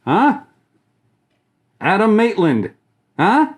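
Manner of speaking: high, loud proud reveal; showing off costume. Real, not acted. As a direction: present the mask with a flourish. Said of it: "guess what I am".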